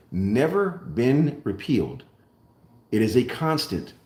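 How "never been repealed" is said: never slowed and weighted, each word deliberate; stress on never. Real, not acted. Insisting the Coinage Act stands, slow stress on never. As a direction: land hard on never, then slowly finish. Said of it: "key word here".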